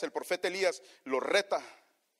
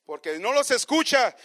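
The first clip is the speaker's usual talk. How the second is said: mocking; 6 semitones higher, 9 dB louder, slower than usual. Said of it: "se mofaba".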